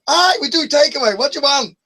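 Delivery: angry Scottish man. Retold or imitated. Scottish takeaway man snapping at a prank caller. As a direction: drag it out, offended Scot. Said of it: "Dead mad, this Scottish guy".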